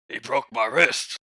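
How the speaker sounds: loud, drawn-out mock grievance; hurt complaint. Gren shows his wrist to the armorer, loud aggrieved complaint. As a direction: stretch out the complaint loudly. Acted injured boy complaining.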